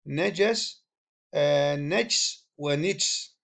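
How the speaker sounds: نجس said slowly, first najas then nijs; pronouncing najas variants. Shown as a demonstration. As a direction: spell out نجس ونجس slowly, fatha then kasra on the nun. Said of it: "بفتح النون وكسرها". (نطق نجس بفتح النون ثم بكسرها ببطء)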